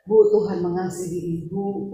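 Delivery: low, gentle retold reassurance; tender comforting. Preacher comforting a crying woman, tenderly. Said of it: "saya belai dia".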